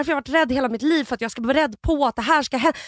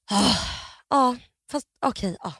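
weary sighing. Retold or imitated. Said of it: "de suckar typ".

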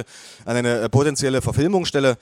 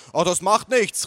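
lightly voiced, higher-pitched mother; mother calling out; 6 semitones higher than usual. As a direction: brush it off in a raised pitch. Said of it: "rief meine Mutter".

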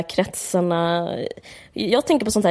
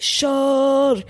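high shouted cheer; mock shout; 7 semitones higher than usual. Another guest jumping up at the dinner, yelling. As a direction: bark the toast across the table.

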